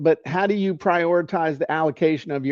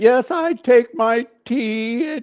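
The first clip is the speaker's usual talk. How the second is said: put-on high, little old lady voice; 8 semitones higher than usual. Told they sound like a little old lady, speaker plays along, little old lady voice. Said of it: "You sound like a little old lady".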